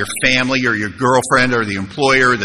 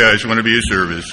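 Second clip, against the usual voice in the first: mock innocent; 4 semitones lower, faster than usual. Mock-innocent self after the prank.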